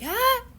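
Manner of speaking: high, held sneeze ah; sneeze wind-up. Retold or imitated. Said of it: "Or I'll be like".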